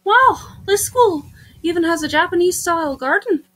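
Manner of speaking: sweet visitor, apologetic after a surprise; lightly voiced heroine. Newcomer admiring the school garden, then apologizing, lightly acted.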